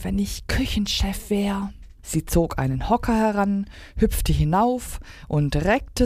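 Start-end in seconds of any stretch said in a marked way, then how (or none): 0.0-1.7 breathy half-whisper to oneself; murmured wish. A narrator's reading. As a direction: murmur it as a private daydream. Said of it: "murmelte sie".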